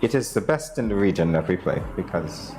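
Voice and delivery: badly faked Trinidadian accent; unconvincing Trinidadian lilt; attempted Trinidadian accent. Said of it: "that's not how a Trinidadian talks".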